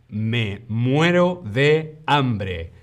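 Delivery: each word drawn out for learners; slow model phrase for the class; slow, careful demo. Shown as a demonstration. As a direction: say it slowly and clearly, like a teacher.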